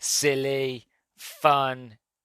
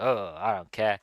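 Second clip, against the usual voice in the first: tough front; 4 semitones lower than usual. Acted. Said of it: "trying to tough it out".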